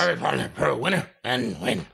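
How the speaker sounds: very slow, low slur; slurred old man voice. Retold or imitated. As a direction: drag the words out in a mumble. Mocking Vince's slurred speech.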